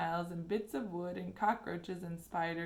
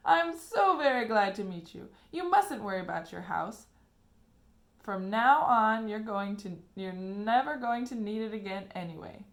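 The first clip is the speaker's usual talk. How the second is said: warm; 2 semitones higher, 8 dB louder than usual. A narrator's reading. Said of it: "shaking Mister Bucket warmly by the hand".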